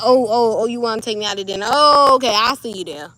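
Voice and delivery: swaggering mock delight at a dinner invite; mock surprised. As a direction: play it as an amused brush-off to a suitor. Mocking a suitor's dinner offer.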